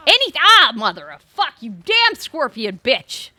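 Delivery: startled curse. Real, not acted. Scorpion attacks in game.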